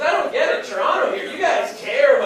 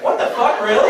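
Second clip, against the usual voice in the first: acted shock; 2 semitones higher, 5 dB louder than usual. Comic reacting to mom's news about his background, acted shock. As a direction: burst out in hammed-up astonishment.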